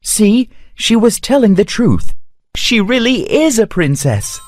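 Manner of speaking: proving his mother wrong with glee; excited. Acted. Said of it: "the prince said excitedly".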